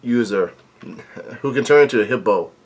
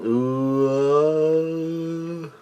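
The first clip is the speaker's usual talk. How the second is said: imitated growl; 3 semitones higher, 7 dB quieter than usual. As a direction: mimic a distant groaning yell, quietly. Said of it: "there's a growling noise, there's a yelling noise".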